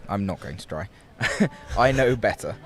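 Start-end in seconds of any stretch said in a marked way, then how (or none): 1.3-2.7 laughing. Real, not acted. Refusing to try Italian accent.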